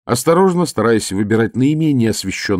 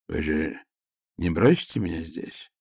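quiet, frightened plea with a tremor; nervous colonel pleading not to be left behind; trembling voice; 4 semitones lower, 7 dB quieter than usual. Acted. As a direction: beg softly, voice shaking. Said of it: "с дрожью в голосе".

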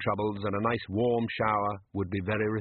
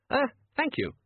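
much higher, thin terrified voice; nervous shopkeeper. A narrator's reading. Terrified shopkeeper thanking Death, high squeak. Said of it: "shopkeeper's thanks".

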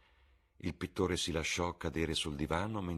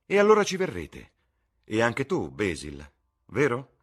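much higher, louder, delighted invitation; exuberant Lord Henry; 7 semitones higher, 11 dB louder than usual. Acted. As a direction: sweep them along gleefully. (Lord Henry esuberante, molto più alto e forte)

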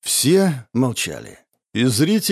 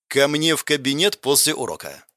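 холодно, сквозь зубы. Acted. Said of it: "процедила она холодным, бесчувственным голосом".

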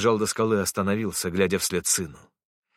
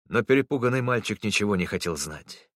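plain reading voice

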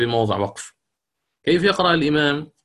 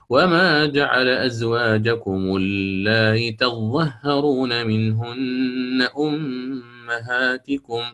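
slow chanted tajwid recitation; تلاوة مجوّدة; Quranic recitation; much slower than usual. Shown as a demonstration. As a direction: recite it melodically, with eased hamza. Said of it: "على التسهيل".

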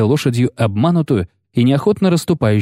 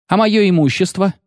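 higher, indignant cry; shout; 10 semitones higher than usual. A narrator's reading. Freed poet shouts for his belongings, indignant. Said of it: "крикнул Лютик".

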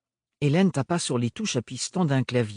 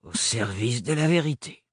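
cavernous repeat. Acted. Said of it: "répéta Hélène".

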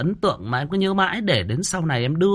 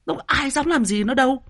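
ordinary talk, nothing marked

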